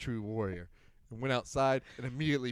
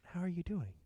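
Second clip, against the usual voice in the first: lightly voiced drunk friend; 7 semitones higher, 6 dB quieter than usual. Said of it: "he's like".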